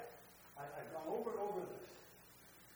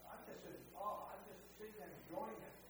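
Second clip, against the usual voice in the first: hushed awe; 2 semitones higher, 5 dB quieter than usual. Real, not acted. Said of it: "This is my thought".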